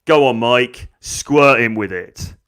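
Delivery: put-on loud, goading girl; egging on. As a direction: urge the bully on, drawing out the end. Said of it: "she goes".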